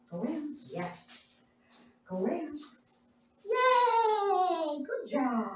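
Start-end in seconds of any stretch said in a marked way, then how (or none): 3.4-5.5 squeaky praising a dog. Real, not acted.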